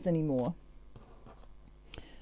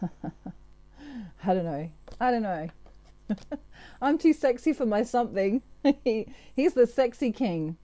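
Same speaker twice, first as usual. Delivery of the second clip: giggling; 2 semitones higher than usual. Real, not acted. Giggles at her own sexy-card joke.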